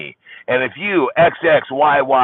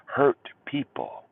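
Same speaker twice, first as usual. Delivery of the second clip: slow emphasis; 4 semitones higher, 5 dB quieter, much slower than usual. Shown as a demonstration. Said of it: "repeated as whisper".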